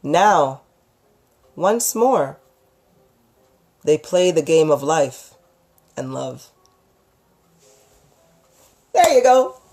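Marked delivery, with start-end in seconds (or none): 0.0-6.5 story narration. Acted. Storyteller closing chapter one for listeners, story narration. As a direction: read it like the closing line of a chapter. Ends reading her own story.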